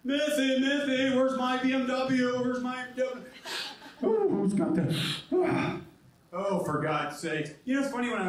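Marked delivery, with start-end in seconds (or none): 0.0-3.2 louder, a little higher, WASP man voice. Pretend. Comic imitates a wasp calling for his BMW, louder. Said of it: "the wasp". 4.0-5.8 mock preppy. Wasp bit continues.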